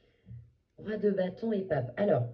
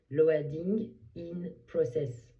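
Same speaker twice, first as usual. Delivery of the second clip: put-on English accent; 4 dB louder, much slower than usual. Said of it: "Désolée pour mon accent very british".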